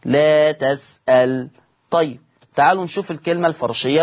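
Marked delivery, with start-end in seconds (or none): 0.0-1.5 تَسألْ said slowly, lam silenced; Warsh reading. Shown as a demonstration. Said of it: "وسكون اللام". (تَسألْ بسكون اللام ببطء)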